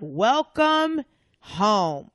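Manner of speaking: very slow, dry welcome; dry deadpan retort. Retold or imitated. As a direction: lay it out slow and sardonic.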